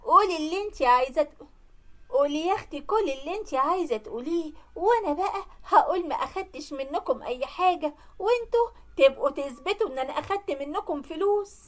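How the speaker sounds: lightly acted domineering retort; haughty defiance. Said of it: "ردت عليها بكل جبروت وقالت لها".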